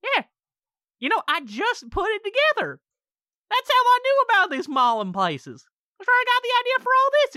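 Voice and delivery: high, loud triumphant villain voice; gloating demon. Acted. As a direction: crow over the trap you sprung. Demon reveals the deal, gloating.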